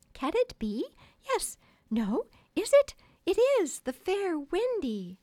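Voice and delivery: high, loud theatrical suspense; breathless reveal. Acted. Wendy revealing herself as heroine, melodramatically thrilled. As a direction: build from wondering questions to exultant proclamation. Wendy's dramatic climax of story.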